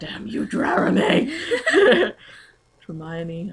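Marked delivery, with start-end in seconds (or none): 0.0-2.1 laughing, high-pitched slow curse. Real, not acted. Reacting to a silly plot twist, a laughing mock curse. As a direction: curse the author through laughter.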